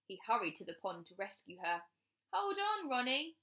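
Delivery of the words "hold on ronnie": shouting. A narrator's reading. Bear hurrying to rescue the rabbit, shouting. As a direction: call out urgently to hold on. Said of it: "he shouted".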